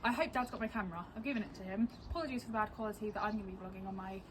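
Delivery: hushed morning voice; quiet. Real, not acted. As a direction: talk softly, people nearby.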